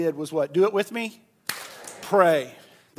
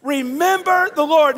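said together; 6 semitones higher, 7 dB louder than usual. Shown as a demonstration. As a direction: proclaim it with the crowd. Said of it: "Let's say it again".

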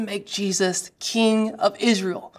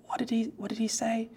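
hushed whisper, much softer; 12 dB quieter than usual. Retold or imitated. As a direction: whisper it in shock. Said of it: "they're whispering".

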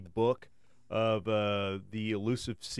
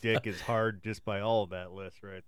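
laughing; 2 semitones lower than usual. Real, not acted. Laughing through crude joke.

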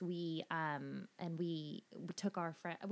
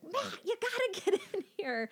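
calling out; 7 dB louder than usual. Retold or imitated. Calling husband over excitedly.

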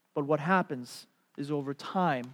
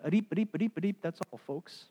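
Porky Pig. Retold or imitated. Outsiders hear only gibberish, cartoon stutter. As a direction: rattle off stuttered syllables, then drop to the sign-off. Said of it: "It sounded like Porky Pig".

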